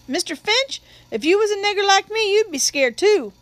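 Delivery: high-pitched, impassioned witness; scared protest. Acted. Witness telling his lawyer why he ran, high and pleading. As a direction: voice lifted in fearful protest.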